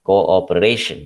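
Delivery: "Cooperation" with weight on RA; coope-RA-tion, second-last syllable stressed. Shown as a demonstration. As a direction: lean on RA in "Cooperation". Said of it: "ray is stressed".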